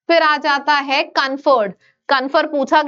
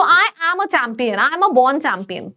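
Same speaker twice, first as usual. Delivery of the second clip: slow declaration; much slower than usual. Shown as a demonstration. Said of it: "cheering students on".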